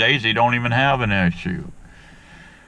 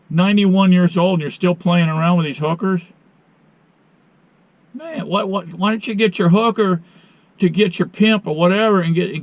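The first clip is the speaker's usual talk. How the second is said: exasperated scolding; 5 semitones higher than usual. Real, not acted. Scolding old friend about hookers.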